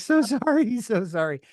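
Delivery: high, giggly "so sorry"; laughing apology. Retold or imitated. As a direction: apologize while cracking up. Wife apologizes while laughing.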